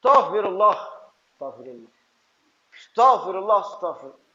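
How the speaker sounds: rattled off, each second one dropping to a mumble; perfunctory prayer, fading away; offhand istighfar. Shown as a demonstration. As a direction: toss it off without pleading. Demonstrates careless way of seeking forgiveness.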